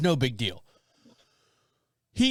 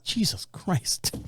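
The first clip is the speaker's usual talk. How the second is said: slow, breathy muttered oath; exasperated; 2 semitones higher, 3 dB quieter, much slower than usual. Retold or imitated. Son reacting to the soaked towel, exasperated mutter. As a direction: drag it out in disbelief.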